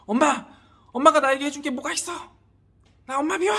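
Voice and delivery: high, loud acted outburst at mom; defiant youngster. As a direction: act out a youngster lashing out at a parent. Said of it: "여러 분 정도 나이 된 친구가".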